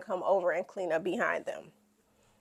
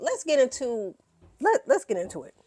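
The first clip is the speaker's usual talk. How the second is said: loud hype; 4 semitones higher than usual. Shown as a demonstration.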